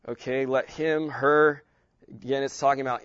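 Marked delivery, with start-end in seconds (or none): 0.5-1.6 her thrown out loud; stress on him and her. Shown as a demonstration. Teacher stressing him and her for the class. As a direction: punch him, then her. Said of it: "I'm emphasizing different words".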